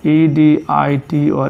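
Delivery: E D I T spoken letter by letter, slowly; slow dictation-style spelling; spelled out slowly. Shown as a demonstration. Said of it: "spelling out letter by letter".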